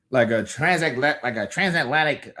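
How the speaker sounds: transatlantic newsman accent; Phone. Shown as a demonstration. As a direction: lightly put on a transatlantic news-guy accent. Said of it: "news guy or something".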